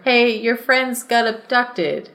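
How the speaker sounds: slow, flat parody of a lazy plot hook; mock a tired story opening; mock story opener.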